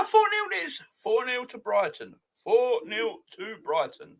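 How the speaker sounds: high, giggling gloat; slow mocking gloat; gloating through laughter. Real, not acted. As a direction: savour every word, still laughing. Gloating over rival's loss.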